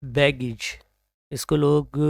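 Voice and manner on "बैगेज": बैगेज with a short, reduced ending, "BAG-ij"; correct pronunciation. Shown as a demonstration. Teacher models the word for learners, correct pronunciation. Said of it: "right one is baggage".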